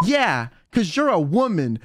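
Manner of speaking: deadpan, totally earnest; imitating a friend's straight-faced reply; dead serious. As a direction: state it as a simple fact, no joke in it. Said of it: "so seriously".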